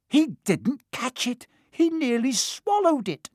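high-pitched indignant wail; howling protest. A narrator's reading. Flint disputing Harry's catch, howling. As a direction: howl it out in outrage. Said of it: "Flint was still howling".

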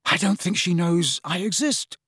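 high, desperate lament; a despairing lovesick complaint. A narrator's reading. Lovesick lad despairing to his friend, desperate. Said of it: "with a desperate gesture".

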